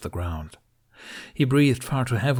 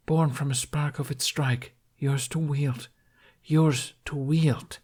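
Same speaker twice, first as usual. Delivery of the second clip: a lightly voiced distant deity, slightly higher; remembered god's voice; 5 semitones higher, slower than usual. Deity instructing Hiccup about the bow, lightly voiced command. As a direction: echo the god's command from memory.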